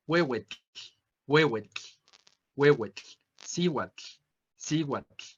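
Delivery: huehuetl and cihuatl ending in a breathy lateral tl; final tl whispered out, no full L; Nahuatl final tl. Shown as a demonstration. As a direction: release the air at the sides at the end of huehuetl. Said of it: "van a tener esta pronunciación".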